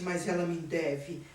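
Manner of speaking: deflated, half-hearted claim; weakened insistence. Retold or imitated. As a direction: say it with the fight gone out. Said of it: "ele perdeu uma força no argumento".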